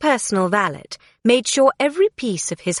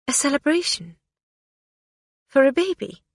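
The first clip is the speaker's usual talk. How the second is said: scornful; 6 semitones higher than usual. A narrator's reading. Queen's scornful inner thoughts.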